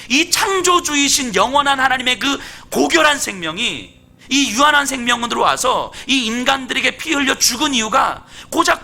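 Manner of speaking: impassioned rebuke from the pulpit; urgent, insistent sermon delivery; forceful preaching. Acted. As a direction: challenge the congregation with pointed questions. Preaches at force, challenging listeners.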